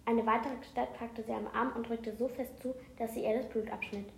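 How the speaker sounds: reading a book aloud; steady read-aloud narration; story narration. A narrator's reading. Reads an excerpt aloud.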